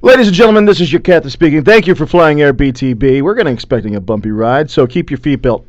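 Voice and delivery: airline captain on the intercom; pilot announcement. Pretend. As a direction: speak like the captain over the PA.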